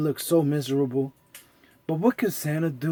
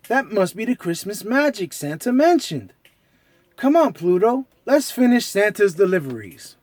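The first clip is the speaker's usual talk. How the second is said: eager cartoon mouse; let's go Mickey; 3 semitones higher, 4 dB louder than usual.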